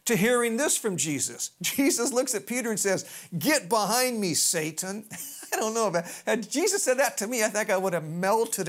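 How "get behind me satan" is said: raised, forceful start dropping on the name; stern rebuke. Retold or imitated. Acted rebuke of Peter by Jesus.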